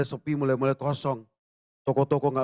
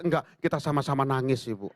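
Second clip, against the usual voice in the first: laughing. Retold or imitated.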